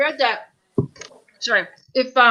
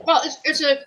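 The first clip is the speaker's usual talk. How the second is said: talking with mouth full of curd; words round a mouthful; 3 semitones higher, 3 dB quieter than usual. Real, not acted. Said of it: "my mouth's full of curd".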